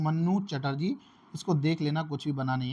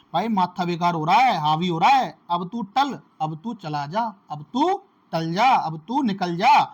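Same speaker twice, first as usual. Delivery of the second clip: annoyed man shooing someone off, a bit louder; fed-up man; 3 dB louder than usual. Retold or imitated. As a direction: grumble that your head is fried and tell him to get lost. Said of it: "तो कैसे बोलते हैं?". (झुंझलाया आदमी, थोड़ा ऊँची आवाज़ में भगाते हुए)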